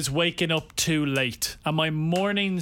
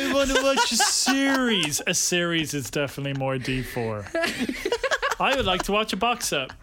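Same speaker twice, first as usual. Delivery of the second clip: sounding like a dad. Retold or imitated. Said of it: "you sound like my dad".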